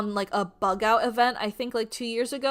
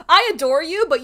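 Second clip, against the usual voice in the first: higher, louder, laughing as she says it; laughing fondly; 5 semitones higher, 9 dB louder than usual. Retold or imitated. Laughing sweetly at her husband over the copy pasta. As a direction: giggle the affection out.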